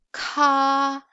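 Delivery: airy k then held vowel in "ka"; aspirated k. Shown as a demonstration. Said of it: "let's just practice one more time".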